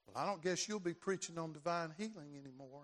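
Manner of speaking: the devil's quiet sneer at a sick preacher. Retold or imitated. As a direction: taunt him quietly from behind. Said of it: "I had this voice behind me".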